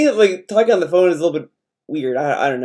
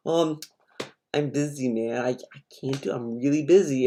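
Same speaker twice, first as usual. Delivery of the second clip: imitating a mumbled, much softer brush-off; mock excuse; 5 semitones lower, 14 dB quieter than usual. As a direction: mumble the excuse like you're dodging him. Friend ducking him, quoted excuse.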